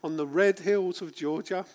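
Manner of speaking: moved while reciting the dream; choked up quoting the famous speech; getting emotional. Real, not acted. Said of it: "sorry, get emotional".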